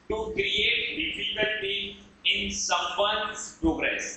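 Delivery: very slow, word by word; spaced-out teacher's dictation. Shown as a demonstration. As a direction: dictate it slowly for note-takers. Dictating the meaning to students.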